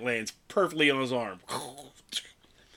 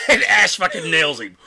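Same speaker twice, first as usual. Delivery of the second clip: excited shout; 5 semitones higher, 10 dB louder than usual. Real, not acted. Climax of retold fight.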